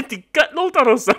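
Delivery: warning repeated through laughter; laughing warning. Real, not acted. Warning friend Aga about Thanos, laughing. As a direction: giggle as you warn him.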